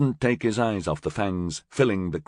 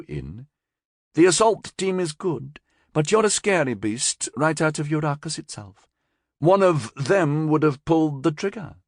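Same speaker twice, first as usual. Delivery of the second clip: higher, crisp director's ultimatum; cool female director; 8 semitones higher than usual. A narrator's reading. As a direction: lay down terms with a faint smile. Yaki voiced high.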